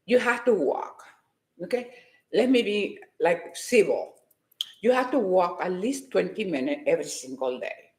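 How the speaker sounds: a deliberately calm voice. Shown as a demonstration. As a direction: rein yourself in and speak calmly. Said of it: "this is the calm me".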